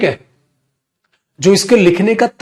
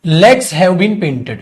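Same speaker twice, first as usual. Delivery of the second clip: each word drawn out, very slowly, for copying; slow dictation; much slower than usual. Shown as a demonstration. Teacher dictating to the class, very slow and deliberate. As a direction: dictate it word by word so students can write. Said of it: "मैंने copy करने को मना ही किया".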